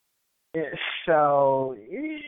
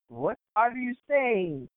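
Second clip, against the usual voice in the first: slow, slightly higher puzzled question; baffled clerk; 4 semitones higher, much slower than usual. Retold or imitated. Bodega clerk not understanding a customer, baffled. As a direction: draw it out in mock bafflement.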